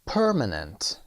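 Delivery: Permanent whispered with per stressed; whispered demo. Shown as a demonstration. Teacher whispers Permanent to show the stress. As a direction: breathe out Permanent, no voice.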